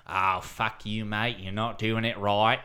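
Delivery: put-on grumbling Aussie accent heckler; mock Australian complaint. Imagined Australian listeners objecting to his impression, mock Australian accent. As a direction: scold him in a broad Aussie accent. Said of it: "cheeky cunts are gonna tune in and say".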